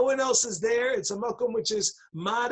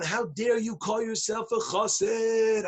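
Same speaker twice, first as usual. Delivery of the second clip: indignant challenge; 3 semitones higher, slower than usual. Acted. Litvaks' indignant challenge, acted again.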